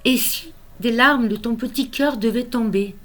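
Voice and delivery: lyrical recital, line endings left to fall away; tender, measured poetry recitation; poem reading. Acted. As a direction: comfort a small child through verse, pausing between phrases. Recites consoling poem to grandson.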